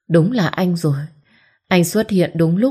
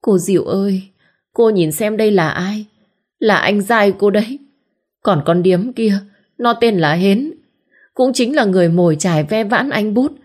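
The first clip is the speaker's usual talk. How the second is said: lightly higher, theatrical grievance; mild wailing complaint; 4 semitones higher than usual. Acted. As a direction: play the wronged wife to the sister-in-law. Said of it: "gào mồm lên ăn vạ". (Hòe ăn vạ với cô Diệu)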